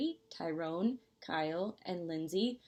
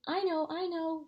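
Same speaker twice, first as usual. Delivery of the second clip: high, louder eager answer; eager child; 9 semitones higher, 4 dB louder than usual. A narrator's reading. Mina eager to answer Missus Bloom, high excited. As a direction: bounce with a hand in the air.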